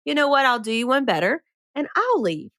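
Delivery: put-on match the kid's bluff and raise it; sassy comeback. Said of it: "I went".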